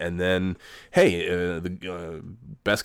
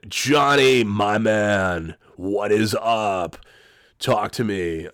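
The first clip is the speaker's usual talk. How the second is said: loud opening, then slow what is up; hyped salesman grabbing his buddy's call; Jim Rome-style bro; 2 semitones higher, 3 dB louder, much slower than usual. Retold or imitated. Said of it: "not doing a very good Jim Rome imitation".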